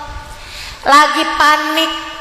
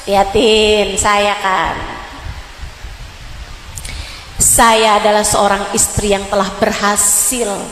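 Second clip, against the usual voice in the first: lower, self-satisfied bragging; smug boast; 7 semitones lower, 3 dB quieter than usual. Acted. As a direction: show off to your friends. Proud wife boasting to friends. (istri sombong yang pamer)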